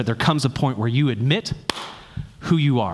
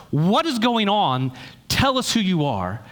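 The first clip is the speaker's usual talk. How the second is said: frantic questioning; 6 semitones higher than usual. Retold or imitated. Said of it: "just like machine fire of like".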